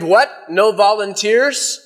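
mildly incredulous question, drawn out; retold officer's surprised query; mild exclamation. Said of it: "he exclaimed".

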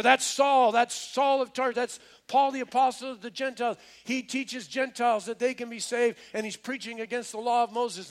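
high, loud mob accusation; alarmed accusation. Acted. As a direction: raise the alarm, high and forceful. Hostile mob accuses Paul.

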